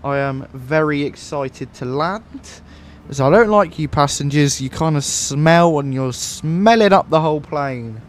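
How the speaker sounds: lightly put-on airline captain addressing the cabin; pilot voice. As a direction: do a leisurely pilot announcement. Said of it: "We gotta do the pilot voice".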